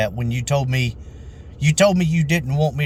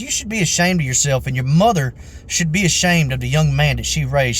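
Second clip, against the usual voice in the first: mock scolding. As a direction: mimic an outraged customer shaming someone. Retold customer's scolding.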